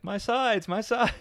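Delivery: mock laughing fit. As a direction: gasp out the words as if helpless with laughter. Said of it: "it's like".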